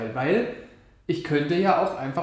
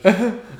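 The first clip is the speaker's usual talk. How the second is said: quick amused laugh; short laugh; 5 semitones higher, 7 dB louder than usual. Real, not acted. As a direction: laugh briefly. Lacht kurz. (kurzes Lachen)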